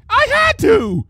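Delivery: high, frightened cry; quailing. A narrator's reading. Trixie cowering before Luna, high frightened cry. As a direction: shrink back and blurt it out in fear. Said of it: "Trixie quailed".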